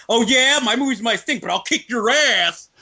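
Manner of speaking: put-on a cocky German accent. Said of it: "said in a German accent".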